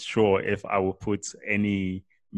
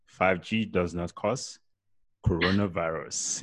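sultry narrator; 2 semitones lower than usual. Pretend. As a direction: purr it out like a fake seductress. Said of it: "in my sexy voice".

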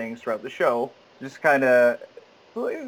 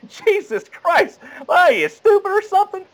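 hammed-up macho jeering in a raised voice; macho guy; 5 dB louder than usual. Actor mocking the macho film character, exasperated macho impression. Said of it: "he's like the macho guy".

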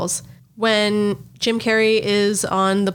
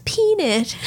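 1 mock stewardess; 8 semitones higher than usual. Stewardess hands over peanuts.

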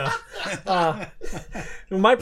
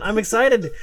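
louder, higher, stressed "excited" with a falling end; excited, emphatic; 4 semitones higher, 5 dB louder than usual. Real, not acted. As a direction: repeat "excited" firmer and higher, landing it.

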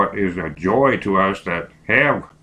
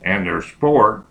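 dictating; slower than usual. Shown as a demonstration.

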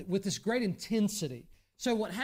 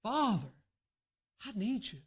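pleading prayer. Retold or imitated. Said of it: "call on him in such a way".

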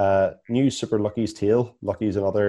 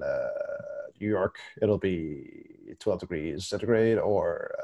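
pilot voice; slower than usual. Pretend. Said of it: "good pilot voice".

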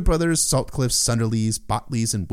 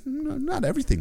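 much higher, playful retort; high teasing voice. Retold or imitated. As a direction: toss it back in a high tease. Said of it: "But Asha's like".

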